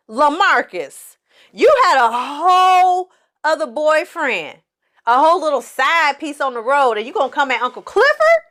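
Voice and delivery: high-pitched, stretched-out call-out; high incredulous telling-off, dragging the first words; indignant disbelief. Acted. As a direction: scold them in hammed-up outrage. Host scolds the character in disbelief.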